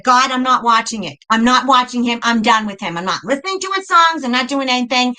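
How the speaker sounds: defiant refusals climbing into a high-pitched complaint; pissed-off rant. Retold or imitated. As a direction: argue with God, increasingly worked up. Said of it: "That's how I was".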